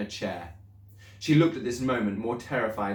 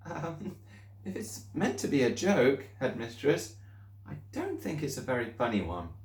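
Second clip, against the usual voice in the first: higher, softer, timid teacher; Miss Honey; 5 semitones higher, 3 dB quieter than usual. Acted. Teacher quietly objecting to the headmistress. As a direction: object gently, a little nervous. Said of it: "Miss Honey said".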